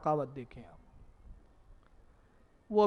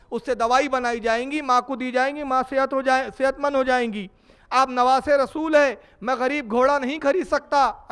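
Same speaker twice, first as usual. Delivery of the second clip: put-on pleading child; 5 semitones higher, 5 dB louder than usual.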